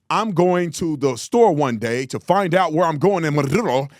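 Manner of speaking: plain English with a sudden rolled-R Spanish "Maduro"; plain English, accented MADURO. Shown as a demonstration. Host mocking code-switchers, a sudden Spanish accent on one name. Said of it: "don't gain an accent when you say Maduro".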